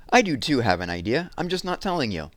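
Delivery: high, loud stubborn comeback; defensive retort. Acted. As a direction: insist you're ahead of him.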